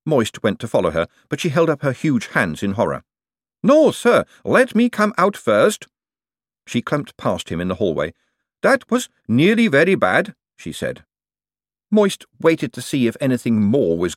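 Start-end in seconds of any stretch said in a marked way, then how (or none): 3.6-5.9 high, loud golem voice in alarm; a huge clay golem, horrified; slow stone monotone. Acted. Golem Gladys in horror. 8.6-10.3 high, loud golem voice in alarm; a huge clay golem, horrified. Acted. Golem Gladys speaking.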